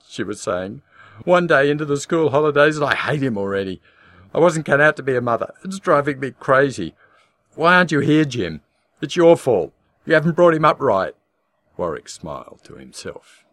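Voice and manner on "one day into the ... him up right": high, loud tearful wail; sobbing. A narrator's reading. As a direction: wail it out near tears. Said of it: "She was sobbing".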